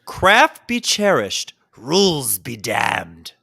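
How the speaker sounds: slow, grandiose stage recitation; hammy stage actor. Pretend. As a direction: declaim it like a ham actor. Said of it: "read it like a thespian that you are".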